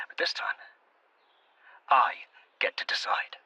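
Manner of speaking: whispered, steely decision. Acted. Quiet resolve before outburst.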